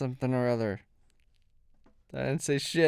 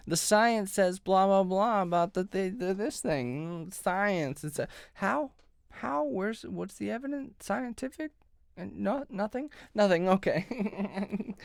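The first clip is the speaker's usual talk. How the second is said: mock exasperation; 5 semitones higher, 3 dB louder than usual. Mocking an evasive official.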